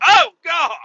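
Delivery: high startled yell of shock; shocked shout. Retold or imitated. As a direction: jump out of your skin and shout it. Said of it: "I was like".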